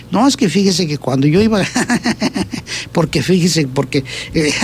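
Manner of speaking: light retold chatter broken by giggles; laughing while chatting. A chatty person laughing through their story, mildly imitated giggly talk. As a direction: imitate someone who can't stop giggling as they talk.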